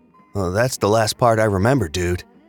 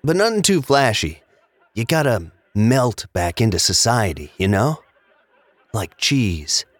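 conspiratorial tone; 2 semitones lower than usual. Acted. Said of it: "He suddenly took on a conspiratorial tone".

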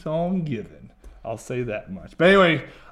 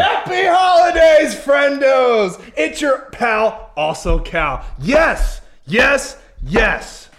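booming high holiday shout; shouted greeting; 10 semitones higher, 6 dB louder, much slower than usual. Acted. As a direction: burst in hollering cheerfully. Cal's shouted holiday entrance.

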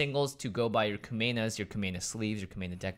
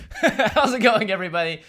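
excited greeting; 9 semitones higher, 7 dB louder than usual. Real, not acted. Podcast opener, laughing.

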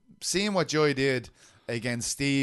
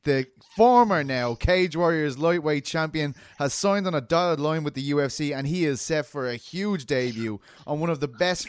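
announcer read. Acted. Host hyping the new signing to his audience, announcer voice. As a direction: read it like a big fight announcement.

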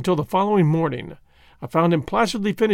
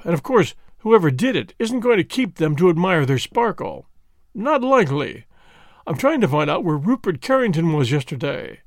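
lightly voiced hearty inspector, a bit higher; friendly, teasing police inspector greeting an old rival; a hint of a bluff English detective; inspector Japp voice; 3 semitones higher than usual. Japp speaks in dialogue.

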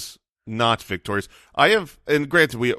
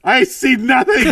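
muffled; 11 semitones higher, 8 dB louder than usual. Real, not acted. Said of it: "sounds like you're in a bathroom".

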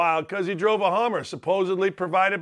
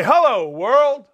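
imagined Phil greeting; 4 semitones higher, 5 dB louder, slower than usual. Retold or imitated. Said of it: "should walk right in there and say".

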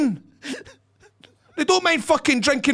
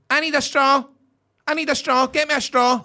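higher, insistent wedding-guest plea; mock clamouring; 3 semitones higher than usual. Guests at the wedding table hunting straws, mock clamouring. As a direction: act out a needy drinker calling for help.

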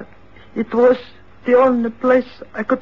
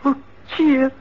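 tearful; 2 semitones higher than usual. Acted. Father hears daughter is here.

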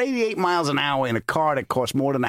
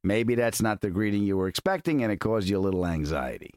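ad read; 3 dB quieter than usual. Acted. Sponsor ad read.

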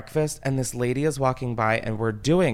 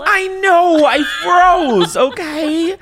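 high, loud defensive outburst; much higher, louder protest; exasperated shout; 9 dB louder, much slower than usual. Real, not acted. Defending herself, worked up.

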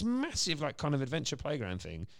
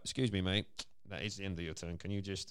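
selfish dad; 7 dB quieter than usual. Retold or imitated. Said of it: "the sort of selfish dad would be like".

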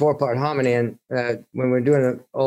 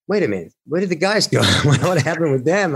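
surprised; 5 semitones higher than usual. Retold or imitated. Realising the guys went missing.

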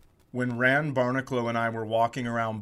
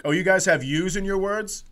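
put-on brash, raised Boston-accent boast; mock Boston American; 4 semitones higher, 3 dB louder than usual. American one-upping Canadian spelling, mock Boston accent. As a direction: play a cocky Bostonian, pitched up. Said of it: "Americans were like".

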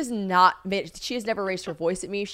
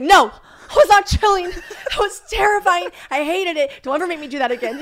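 loud exasperated denial; outraged protest; 9 semitones higher, 8 dB louder than usual. Retold or imitated. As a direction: cry out in hammed-up indignation. Retold outburst, denying being chill.

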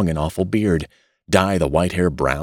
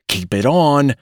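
higher, louder hurried plea; 7 semitones higher, 4 dB louder than usual. A narrator's reading. Father stopping his son undressing, hurried and higher. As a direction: blurt it out in a hurry. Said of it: "said Mister Button hurriedly".

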